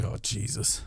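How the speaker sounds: breathy whispered oh Jesus; hushed exasperated groan; whispered aside. Retold or imitated. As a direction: mutter it under your breath, dismayed. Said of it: "I was like".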